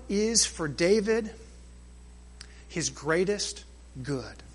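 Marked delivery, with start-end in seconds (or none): 2.7-4.4 soft fade. Real, not acted. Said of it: "preacher slows to savor phrase".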